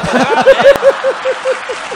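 loud crowd laughing; big laugh from the room; audience laughter. Real, not acted. Audience at the comedy club laughing loudly at the joke.

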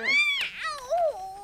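sudden high loud ouch; crow's cry of pain. Acted. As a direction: yelp it out sharply. Crow hurt, cries out.

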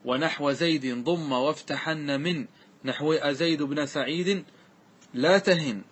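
slow, drawn-out chant of the verse; slow classical verse recital; verse recitation. Shown as a demonstration. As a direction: recite the poem line slowly and evenly. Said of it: "هذا معنى قوله".

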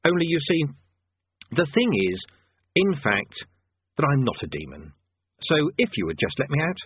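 lightly voiced nervous wizard; nervous Rincewind. Rincewind begging the conjurer to release him, nervous.

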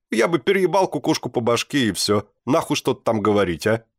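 high, loud, cheeky cat voice. Acted. Cat boasts what he would do to the teacher, high and cheeky. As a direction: play the cat as a grinning brash creature.

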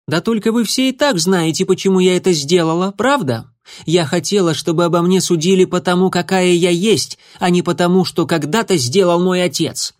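put-on a defiant young she-cat, straight to the point. A narrator's reading. A former apprentice explaining herself to the leader, bluntly.

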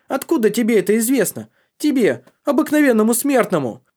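scornful shout. Acted. Boy scornfully challenges Tari.

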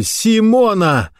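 very high, stretched cry; high, falling cry of horror; anguished shout. A narrator's reading. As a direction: scream the name without much added volume. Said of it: "закричал Рауль".

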